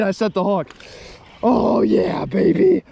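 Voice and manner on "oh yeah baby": excited celebration. Real, not acted. Landing his fish, whooping with joy. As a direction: crow with delight at the catch.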